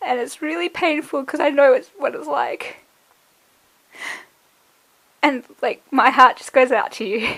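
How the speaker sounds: crying while speaking, in tears. A speaker addressing viewers directly, crying while talking. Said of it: "That's why I'm crying".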